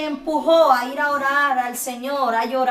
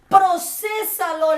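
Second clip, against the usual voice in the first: earnest plea; 3 semitones higher, much slower than usual. Retold or imitated. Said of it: "le decía yo".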